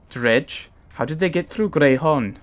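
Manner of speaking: a light Welsh lilt for the giant Varl; Welsh accent. Acted. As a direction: read Ivar's lines in a gentle Welsh accent. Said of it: "he's Welsh".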